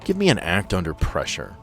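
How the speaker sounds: usual speaking voice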